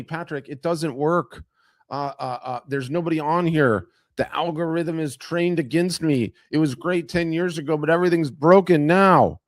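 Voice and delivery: mildly hammed-up grumbling; mock complaining. Artists telling him it doesn't work, mock complaint.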